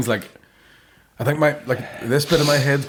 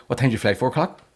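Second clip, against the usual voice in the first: "What time's your flight? Four o'clock?" run into one; run-together question. Retold or imitated. Drunk passenger asking about the flight home, words run together. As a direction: imitate him answering his own question without a break. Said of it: "one word".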